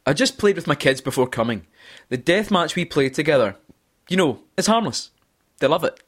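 measured keynote patter with short pauses; conference presenter voice. Acted. Podcast host reading quiz quote number three, conference presenter voice. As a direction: present it like a rehearsed stage anecdote. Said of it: "do this in my most, um, conference-like, um, voice".

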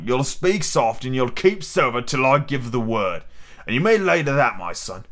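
lightly voiced commanding buccaneer; pirate ringleader, scolding. Silver orders the impatient coxswain to wait, stern. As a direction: lay down the law to a shipmate.

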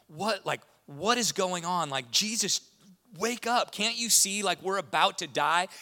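high, loud mock panic; panicked disciples. Disciples shouting at sleeping Jesus in the storm, mock panic. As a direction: yell like a frightened fisherman in a storm. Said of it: "they're like".

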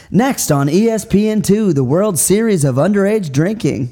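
punchy sports-channel announcer read; big, swinging announcer intonation; mock TV promo. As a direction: sell it like a network promo.

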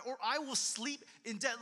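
pleading psalm reading; desperate cry. Acted. Preacher voicing David's plea to God, desperate. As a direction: plead as if life depends on it. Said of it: "like this desperate cry".

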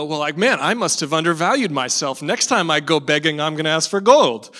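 lightly hammed-up swagger; inflated ego. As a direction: play a self-satisfied man, pleased with himself. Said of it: "with an inflated ego".

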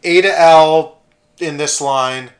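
loud call, settling as it goes; election master announcing. Retold or imitated. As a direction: imitate an official directing a queue. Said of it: "the election master".

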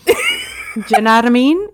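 run-together Cockney "jnadamean", amused; Cockney attempt. Shown as a demonstration. Player echoing the game phrase, amused Cockney. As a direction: try it as one Cockney word with a laugh. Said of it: "speaking the phrase with a Cockney".

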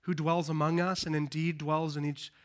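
low, subdued pastoral prayer. Real, not acted. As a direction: pray humbly aloud with long pauses between phrases. Leads a prayer.

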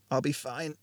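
hoarse and soft; raw throat. Acted. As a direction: rasp it through a sore throat. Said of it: "coughed as his raw throat spasmed".

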